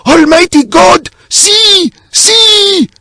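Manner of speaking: high-pitched, slow, full-volume screams; terrified shrieking. A narrator's reading. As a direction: scream in horror, stretching each cry. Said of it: "shrieking in my ears".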